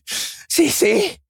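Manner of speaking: high, questioning call of a name; anxious asking. A narrator's reading. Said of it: "I asked".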